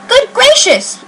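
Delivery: very high startled exclamation; gasped. Acted. Maisie recognising Horton, a high startled gasp. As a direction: gasp it out in shock. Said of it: "gasped Maisie".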